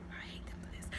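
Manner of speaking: hushed, half-joking grudge; mock-bitter whisper. Own reaction retold.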